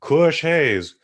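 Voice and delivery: high, loud, slow scolding. Retold or imitated. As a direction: wag a finger at the student. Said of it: "the R A would be like".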